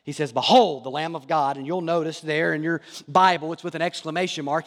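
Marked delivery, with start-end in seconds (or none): 0.3-1.6 forceful declaration. Retold or imitated. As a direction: proclaim it with force, like announcing a king. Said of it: "He says it with force".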